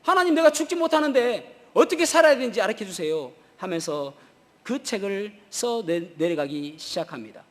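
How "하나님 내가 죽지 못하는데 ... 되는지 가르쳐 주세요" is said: raised, higher pleading cry; loud plea to God. Retold or imitated. Preacher voicing Joni's prayer to God, loud pleading. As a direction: call out to God, begging for an answer. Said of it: "큰 소리로 이야기하기를".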